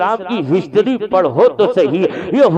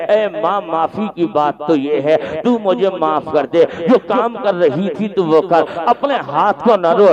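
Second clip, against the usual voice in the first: a hint of crying as he begs the mother; weeping plea; 5 semitones lower than usual. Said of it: "حضرت عمر روتے ہوئے کہتے ہیں". (روتے ہوئے دھیمی آواز میں معافی مانگنا)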